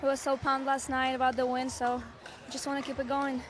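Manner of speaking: lost her voice, hoarse and strained. Real, not acted. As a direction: talk through a worn-out hoarse voice. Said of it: "As you can hear, I lost my voice".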